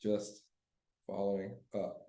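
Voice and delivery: quiet, easy "Hey, just following up"; soft friendly follow-up text read aloud; soft casual check-in. Retold or imitated. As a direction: drop to a gentle low-key nudge. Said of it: "Yeah, I say".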